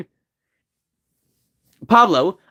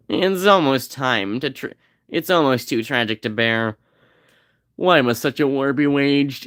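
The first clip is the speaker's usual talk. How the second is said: tragic lament; 4 semitones lower than usual. Acted. Melodramatic lament over the game war.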